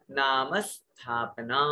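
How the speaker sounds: slow, नाम given weight and स्थापना said without an added इ; stress on नाम. Shown as a demonstration. Teacher modelling correct pronunciation, slow and careful. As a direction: say नाम firmly and स्थापना cleanly. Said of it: "तो ऐसे ही".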